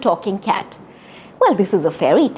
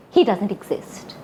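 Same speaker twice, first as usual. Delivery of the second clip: softer, dismissive aside; 3 semitones lower, 6 dB quieter than usual. Shown as a demonstration. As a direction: brush the wolf away, softly. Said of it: "act a little snooty".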